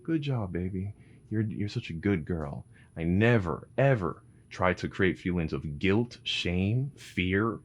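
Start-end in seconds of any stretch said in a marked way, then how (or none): 0.0-2.6 put-on light, high, sweet praise to a calming toddler; mother soothing her daughter after a tantrum, lightly sweet; praising parent. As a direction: coo it like a gentle mom, lightly. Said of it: "I'm like".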